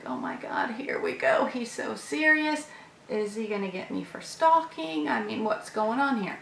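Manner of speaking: hushed, breathy worried whisper; nervous whisper. Retold or imitated. Dreading the office talk, whispering her worries. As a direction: whisper your panic to yourself. Nervous inner reaction before meeting.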